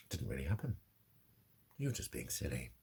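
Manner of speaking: low, soft imitation of a brush-off; hushed, low mock dismissal; dismissive retold voice. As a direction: quote someone quietly dismissing you. Voices dismissive reply that triggered her.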